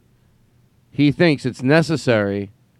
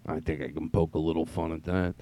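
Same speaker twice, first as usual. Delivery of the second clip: mocking cocky singer; 7 semitones lower, 9 dB quieter than usual. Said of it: "He's just delusional".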